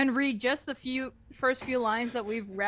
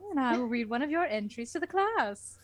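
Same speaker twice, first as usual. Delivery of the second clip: teacher instructions; 4 semitones higher than usual. Acted. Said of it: "you're Missus Lesson".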